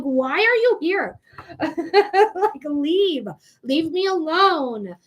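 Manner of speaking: slow "Why are you here?" through a laugh; mock the annoyance with a chuckle. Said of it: "that's a frustration".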